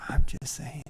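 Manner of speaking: voiceless stage whisper. Real, not acted. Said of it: "And I'm whispering just because".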